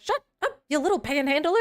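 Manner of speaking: put-on high-pitched joking snap at the kid; mock snapping. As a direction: pretend to scold the daughter in fun. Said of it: "I was like".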